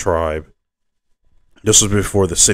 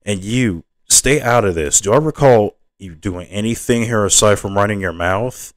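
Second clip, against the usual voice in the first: raised-pitch telling-off; acted indignant scolding; cross rebuke; 3 semitones higher than usual. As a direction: put the meddler in their place. Acted quarrel, daughter rebukes defender.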